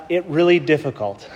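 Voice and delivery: usual speaking voice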